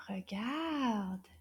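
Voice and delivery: hushed "regarde"; whisper. Acted. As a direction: whisper it like a secret. Whispered look.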